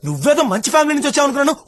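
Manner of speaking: fast, heated telling-off; angry scolding. Acted. Man scolding his date for shouting in public, fast and angry. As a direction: rattle off an indignant reproach.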